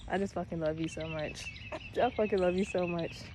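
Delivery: tender. Real, not acted. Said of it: "making me emotional".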